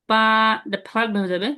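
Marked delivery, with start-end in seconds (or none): 0.1-0.2 পা held level and flat; first tone. Shown as a demonstration. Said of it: "এখানে first tone". (পা সমান উঁচু সুরে)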